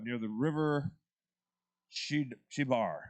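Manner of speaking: slow, halting try at Chibar; feeling for the name Chibar, syllable by syllable; attempted pronunciation. Real, not acted. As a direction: sound out Chid-, Chibar carefully and slowly. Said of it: "That's the closest I'm gonna get to that".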